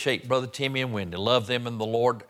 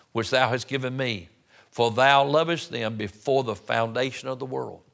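Bible verse proclaimed from the pulpit; scripture reading. Real, not acted. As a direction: read the prayer out with a firm call on the opening word. Reads scripture aloud.

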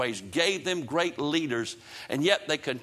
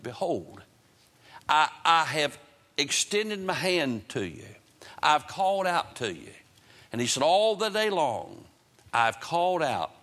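God calling out. Acted. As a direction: preach it as God's plea, with long pauses. Preacher voices God calling Israel.

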